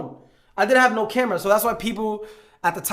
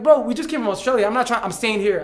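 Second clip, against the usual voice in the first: higher, louder pleading objection; retold protest; 4 semitones higher, 4 dB louder than usual. Passenger refusing to leave the plane, raised retold protest. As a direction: argue back, imitating disbelief.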